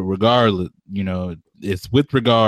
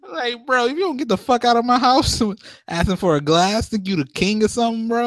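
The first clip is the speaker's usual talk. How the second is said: mock outrage; 11 semitones higher than usual. Acted kicking out a fussy guest.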